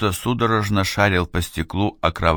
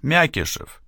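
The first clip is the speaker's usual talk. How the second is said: high desperate calling out; shouting; 10 semitones higher, slower than usual. A narrator's reading. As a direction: yell to the pilot overhead. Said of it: "закричал сержант".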